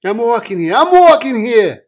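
loud, high, building to a yell; shouted movie quote. Acted. Partner showing how Dustin Hoffman's line goes, indignant shout.

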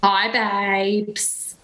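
drawn-out Essex "Hi, babes"; Bimini's Essex accent. Shown as a demonstration. Contestant doing Bimini for the challenge, drawn-out Essex accent. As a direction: stretch babes like an Essex gal. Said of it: "Bimini is an Essex gal".

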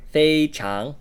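非 held high and level in 非常; first tone on 非. Shown as a demonstration. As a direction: demonstrate 非常, first syllable high and even. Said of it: "with the first tone there".

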